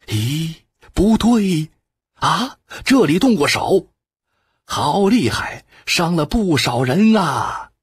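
sudden high alarmed cry of surprise; startled discovery. Acted. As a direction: react as if spotting fresh bloodshed.

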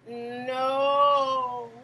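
a lightly voiced snake's flat no; full snake answering the boy, lightly voiced; snake refusing. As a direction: snake says no, a hint of a creature voice. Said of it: "said the snake".

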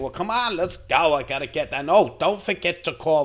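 put-on high, bright chatter of a lively old lady. Old lady bossing her helper, high and lively.

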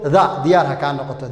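"the" said as a schwa "thuh" before consonants; correct "the". Shown as a demonstration. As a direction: model "the" as "thuh". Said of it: "The ma jirto". ("the" oo gaaban)

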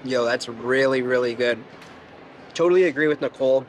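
chewing between words; talking while chewing. Real, not acted. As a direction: mouth partly full of food. Seen 0: Bite at -4, then chewing; lips pressed between words 1.6-3.0.

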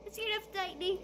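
high scream, then a scared cry; frightened shout. Real, not acted. Cat character shrieks at lightning, high frightened yell. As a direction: yelp in fright at the thunder. Lightning strikes, player startled.

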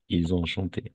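"Ils ont" joined by a z sound; liaison. Shown as a demonstration. Teacher models the last past form, with liaison. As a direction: run "Ils ont" together as "il-zont". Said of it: "liaison aussi".

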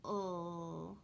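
"L" said as the bare sound; first sound. Shown as a demonstration. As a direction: hold a short "L" sound. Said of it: "tell me the first sound".

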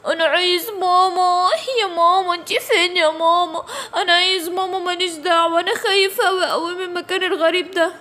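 a whiny little cry for mama; whimpering for mama. Acted. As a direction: sniffle like a lost toddler. Lost child cries for mama. (بكاء طفل بيدوّر على ماما)

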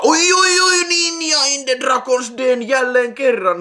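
very high, loud squeal of delight; thrilled high-pitched fanboy outburst; excited squeal. Real, not acted. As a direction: squeal the film title in drawn-out glee. Thrilled at the next film.

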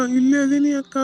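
loud call to big sister. Acted. Little brother calling his sister from the well, calling out. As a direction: call out so she can find you.

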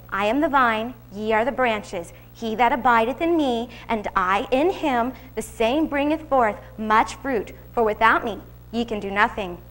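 slow, solemn reading of scripture; preacher reads the vine and the branches. Acted. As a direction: read each line reverently and slow. Reading John fifteen.

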